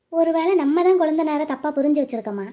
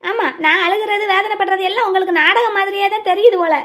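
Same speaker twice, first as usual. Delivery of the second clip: tearful; 3 semitones higher than usual. Acted. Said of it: "நீ அழுதுகிட்டே என்ன பார்க்க வர்றியா".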